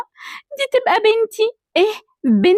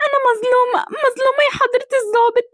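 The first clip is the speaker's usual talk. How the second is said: crying out her innocence to the officer; tearful pleading; 3 semitones higher than usual. Acted. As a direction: plead through sobs. Arrested daughter pleads, crying.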